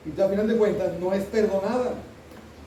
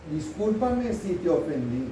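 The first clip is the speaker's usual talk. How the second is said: mock non-apology; slower than usual. Shown as a demonstration.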